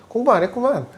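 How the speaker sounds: cold blunt reply. Retold or imitated. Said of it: "이렇게 물으면 티발놈이에요".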